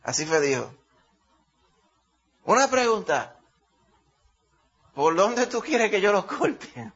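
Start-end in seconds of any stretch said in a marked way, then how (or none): 2.4-6.9 médico burlón. Retold or imitated. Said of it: "El podiatra abrió y dijo".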